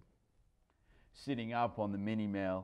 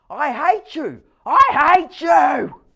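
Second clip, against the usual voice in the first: put-on upset child; 16 dB louder, slower than usual. Child screaming at his father.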